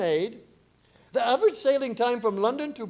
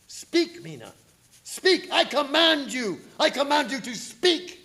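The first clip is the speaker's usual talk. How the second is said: commanding; 5 semitones higher than usual. Acted. Van Helsing commanding entranced Mina, higher forceful command. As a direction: order her to speak.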